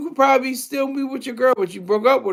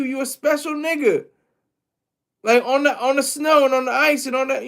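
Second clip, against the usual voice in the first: exasperated disbelief; 5 semitones higher than usual. Real, not acted. Ranting at the athlete for his confession, exasperated and higher. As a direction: scold him like you can't believe what he did.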